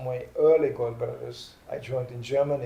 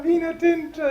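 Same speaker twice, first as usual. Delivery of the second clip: carefree Italian; 13 semitones higher, 4 dB louder than usual. Retold or imitated. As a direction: stretch it out loud and high like a merry Italian. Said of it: "And Italians are like".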